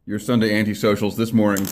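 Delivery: talking around a wad of tobacco; words slightly thick from chewing. Real, not acted. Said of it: "I have tobacco in my mouth".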